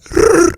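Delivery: short throaty trilled creature noise; botched alien growl; lame alien roar. Acted. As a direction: feeble attempt at a monster trill. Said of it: "that was pretty lame".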